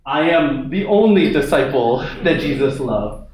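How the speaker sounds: a proud disciple boasting he is the favourite; smug, puffed-up claim of being the only favourite; cocky boast. Pretend. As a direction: say it like a self-important bragger. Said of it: "I don't think John's like".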